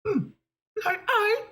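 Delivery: high, indignant piggy diva; a pampered star, offended; diva outrage. Acted. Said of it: "we want to go a little like this".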